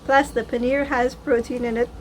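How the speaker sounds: talking while chewing; mouth full. Real, not acted. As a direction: speak through a mouthful of food. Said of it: "bad manners to talk with my mouth full".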